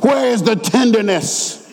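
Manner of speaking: urgent sermon appeal; fervent preaching. Real, not acted. Preacher warning God's people about hard hearts, fervent. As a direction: press the congregation, drawing out the key words.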